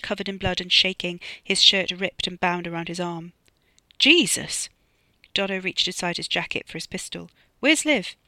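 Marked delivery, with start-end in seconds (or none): 4.0-4.7 shocked exclamation. Acted. Sees bloodied Freddy. 7.6-8.1 alarmed high demand. Acted.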